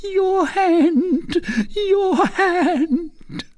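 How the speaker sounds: very high, tearful wail; anguished cry. A narrator's reading. Recluse longs to embrace her daughter, anguished cry. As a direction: wail slowly, aching to reach her. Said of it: "cried the recluse".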